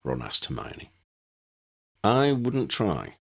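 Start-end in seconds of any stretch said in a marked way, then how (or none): 2.0-3.2 warning. Acted. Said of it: "Harry warned".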